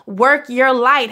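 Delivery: each word drawn out slowly, rising on light; slow emphatic urging. Real, not acted. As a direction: lay it on slowly, like a blessing. Repeated encouragement to viewers.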